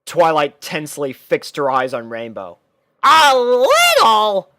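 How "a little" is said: high, loud, slow disbelieving question; incredulous. Acted. Twilight questions Rainbow's excuse, loud and disbelieving. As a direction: throw her words back at her.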